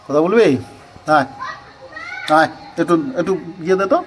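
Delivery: put-on high, loud baby talk to a pet; high coaxing pet voice. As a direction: coax the cat sweetly. Coaxing the cat to do tricks.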